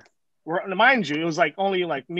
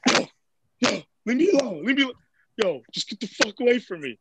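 higher, agitated mimic pushing someone away; impression of upset friend; 4 semitones higher than usual. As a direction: act out his whiny, cornered protest. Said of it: "this is what it looked like".

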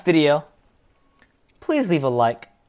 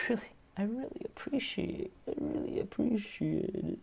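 soft sign-off; 8 semitones higher, 16 dB quieter than usual. Real, not acted.

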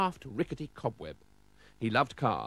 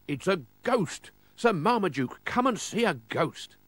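excited shout; 6 semitones higher than usual. Acted. Mister Oldcastle calling Sir Marmaduke to see, excited high shout. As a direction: call him over, stretching the words. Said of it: "Then he shouted".

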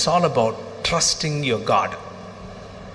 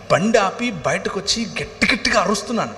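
raised preaching voice, building intensity; preaching testimony; 4 semitones higher than usual. Acted. Pastor to congregation, recounting his anguish, raised preaching. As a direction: preach the story with rising fervour.

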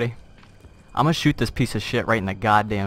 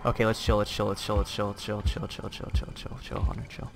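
self-soothing whisper; 4 semitones lower, 8 dB quieter than usual. Real, not acted. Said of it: "calming himself down".

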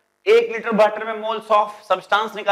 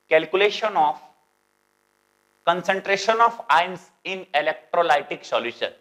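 slow dictation; much slower than usual. Shown as a demonstration. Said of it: "teacher dictates topic slowly".

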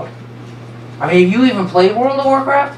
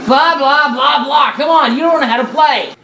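mocking; 3 semitones higher than usual. Mocking a teammate mid-game.

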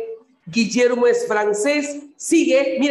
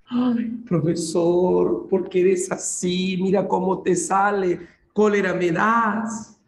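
mock exasperated student. Teacher voicing a student annoyed with him, mock whine. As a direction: drag out the ay like a fed-up pupil.

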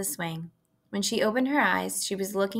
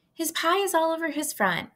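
put-on high-pitched girlish complaint; high girl's voice; 10 semitones higher than usual. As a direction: play a fussy little girl. Fern complains about Avery.

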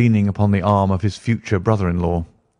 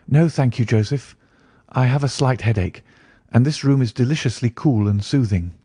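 lightly voiced young lady, a little higher; polite young lady; 4 semitones higher than usual. Sister declining her brother's invitation outside, lightly voiced polite lady.

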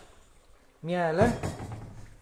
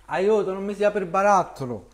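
louder mock distress cry; calling for help; 3 semitones higher, 6 dB louder than usual. Real, not acted. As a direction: call out for help over the jar. Calls for help with the jar.

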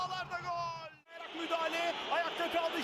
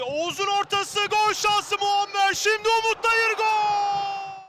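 louder, drawn-out goal build-up; rising goal scream; 11 dB louder than usual. Real, not acted. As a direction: build to a roaring goal call.

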